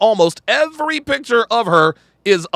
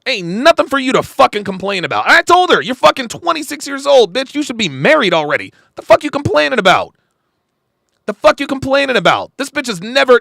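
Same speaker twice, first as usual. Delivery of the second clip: retold scolding; 4 semitones higher than usual. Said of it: "I was like".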